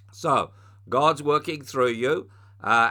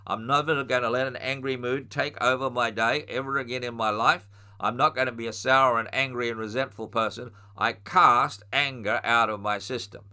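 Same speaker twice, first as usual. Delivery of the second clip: commanding rebuke. Shown as a demonstration. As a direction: order the anger out with authority. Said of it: "and you say".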